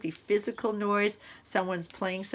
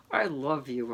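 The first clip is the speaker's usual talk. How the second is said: low voice,; 6 semitones lower than usual. Shown as a demonstration. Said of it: "in so many different tones".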